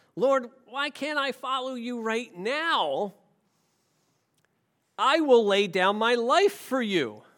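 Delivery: put-on whiny little-kid voice. A speaker reading Peter's response from the verses, voicing Peter as a little kid. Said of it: "He sounds like a little kid".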